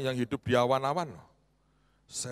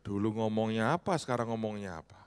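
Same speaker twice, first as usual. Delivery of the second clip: inner grumble; 6 semitones lower, 5 dB quieter than usual. Retold or imitated. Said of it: "Dalam hati saya bilang".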